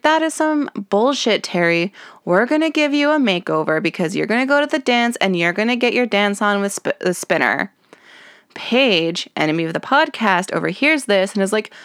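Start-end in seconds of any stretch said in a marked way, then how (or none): 0.0-7.7 Ashley impression. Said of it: "And Ashley's like".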